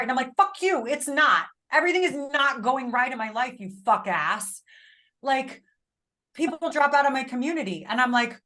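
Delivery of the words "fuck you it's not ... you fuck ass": mock angry retort. To her husband who nags her, a mock angry retort. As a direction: spit it back like an irritated wife.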